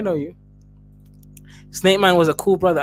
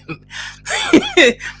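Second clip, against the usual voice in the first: high squealing burst of laughter; a real, shrieking laugh. Real, not acted. Laughing at the donation.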